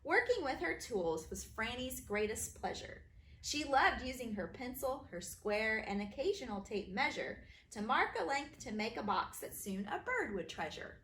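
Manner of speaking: bouncy, sing-song rhyme reading; rhyming read-aloud. A narrator's reading. Author reading her rhyming book to kids, bouncy.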